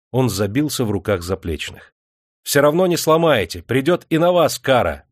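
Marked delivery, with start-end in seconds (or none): 2.4-5.1 higher and louder, struggling; defiant shout. A narrator's reading. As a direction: yell back while being held down. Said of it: "сопротивляясь, кричал он". (вызывающий крик)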